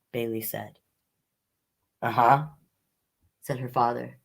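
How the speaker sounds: gentle storybook read-aloud; reading to children. Acted. Librarian reading a picture book to children, gentle storyteller voice.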